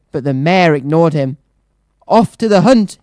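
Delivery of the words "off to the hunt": rallying shout, higher and louder. Acted. Mayor sending townsfolk to the hunt, shouting. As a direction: call the hunt out to the town. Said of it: "he shouted".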